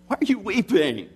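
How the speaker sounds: lightly hammed-up plea to stop crying; mock exasperated husband. Acts out husbands questioning crying wives.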